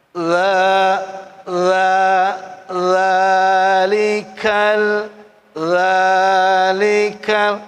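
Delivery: very slow, soft "lalikal" with a rounded la; soft dal. Shown as a demonstration. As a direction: stretch "la" softly and slowly. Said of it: "bacanya empuk". ("lalikal" dibaca empuk dan lambat)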